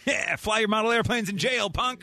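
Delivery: mock taunt. Juror jeering at his jailed dad, mock taunting.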